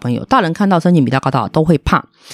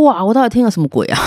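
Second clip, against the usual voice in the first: shocked disbelief; 5 semitones higher than usual. Retold or imitated. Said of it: "我很惊讶的看着妈妈哦".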